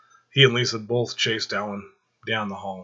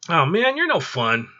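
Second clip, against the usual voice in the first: higher, louder, slow drawn-out whine; whining; 8 semitones higher, 6 dB louder, slower than usual. Acted. Alan complaining to Michael after his hand is slapped, whiny. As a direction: sulk like a kid denied a treat.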